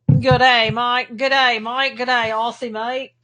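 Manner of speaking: playful Aussie greeting with "day" said like "die"; mock Australian accent. Host greets an Aussie viewer, mock Australian accent. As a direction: put on a light Australian accent.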